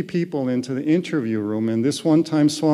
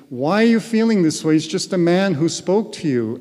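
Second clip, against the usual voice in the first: higher, louder and fast, a nagging mind; skeptical inner voice; 4 semitones higher, 4 dB louder, faster than usual. Retold or imitated. His own mind questions his feelings, higher, louder, fast. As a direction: rattle off the doubting mind's challenge. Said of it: "this mind comes back and says".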